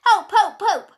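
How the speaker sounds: high, rapid-fire yelps for help; shout for help. A narrator's reading. Third sheep joining the cries for rescue, shouting. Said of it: "shouted Dolly three".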